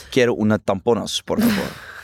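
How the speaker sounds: hammed-up Spanish accent, rising at the end; showing off bad Spanish with a put-on accent; mock Spanish. Showing off her Spanish to the host, mock Spanish accent. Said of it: "ik spreek fucking goed Spaans".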